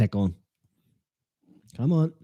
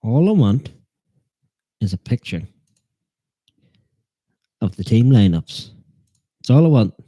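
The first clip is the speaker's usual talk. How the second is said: louder, frustrated complaint; exasperated rant; 6 dB louder than usual. Real, not acted. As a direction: vent it loudly to the chat. Frustrated search for lineups.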